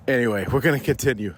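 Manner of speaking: usual speaking voice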